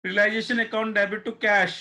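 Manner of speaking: each word drawn out very slowly for copying; slow dictation. Shown as a demonstration. Teacher dictating the journal entry to online students, very slow and deliberate. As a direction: dictate it slowly so they can write.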